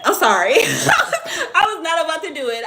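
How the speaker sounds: loud, high laugh through the words. Real, not acted. Streamer defending refusal of twenty dollar donut, laughing. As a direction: crack up while defending yourself.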